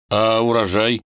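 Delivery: lost, puzzled «урожай» rising up; bewildered. A narrator's reading. Vanya confused asks his wife, a puzzled rising «урожай». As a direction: ask «урожай» as if truly at a loss, rising. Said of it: "спросил растерянно".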